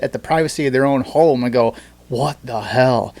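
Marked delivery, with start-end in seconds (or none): 2.1-3.1 mock disbelief. Shown as a demonstration. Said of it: "Can you show that scroll motion again".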